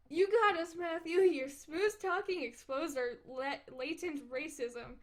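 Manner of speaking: hammed-up dramatic declaration; mock dramatic. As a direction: boom it out like a movie trailer. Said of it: "ex-, what?".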